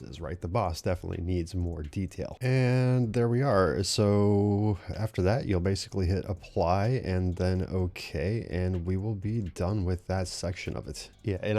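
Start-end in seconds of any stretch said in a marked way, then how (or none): 2.4-11.1 winded, audible breathing between words; out of breath from talking nonstop. Real, not acted. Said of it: "genuinely out of breath".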